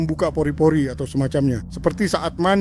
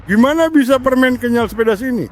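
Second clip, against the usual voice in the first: repeated more clearly; 6 semitones higher, 3 dB louder than usual. Real, not acted. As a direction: say it again so they hear. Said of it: "Kamu bilang apa?".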